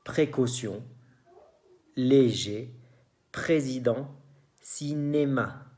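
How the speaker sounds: "précaution, léger, président, cinéma" with é as Spanish e; closed Spanish-like E. Shown as a demonstration. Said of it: "el E español". ("précaution, léger, président, cinéma" con e española)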